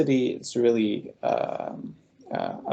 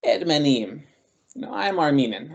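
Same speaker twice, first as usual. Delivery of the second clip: a small, apologetic Ermeniyim with a shrug; offhand, as if apologising for it; sheepish, shrugging admission; 3 semitones higher than usual. Retold or imitated. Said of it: "sort of apologetic about it".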